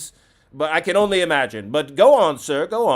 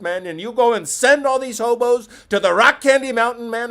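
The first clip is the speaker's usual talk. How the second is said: raised, excitable mock rant; a higher, heated rant full of fake fury; hammed-up outrage; 5 semitones higher than usual. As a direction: work yourself up into comic indignation. Escalating comic rant about hobos.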